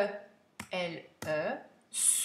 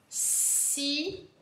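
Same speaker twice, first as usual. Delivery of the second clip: "cinéma" slow, in separate higher-pitched syllables; 6 semitones higher, slower than usual. Shown as a demonstration. Teacher dictating to pupils, syllable by syllable. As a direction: split "cinéma" into syllables for writing.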